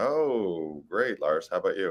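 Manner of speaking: mocking, flat, unenthusiastic tone. Teasing the other speaker by imitating their reply: imitating an unenthusiastic "great". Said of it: "You went kinda".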